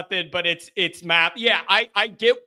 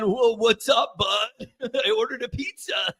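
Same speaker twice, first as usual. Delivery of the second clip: lightly voiced stoner movie dude; Spicoli. Radio host acting out his favorite movie character, goofy stoner impression.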